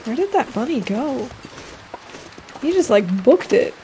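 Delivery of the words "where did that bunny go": ordinary talk, nothing marked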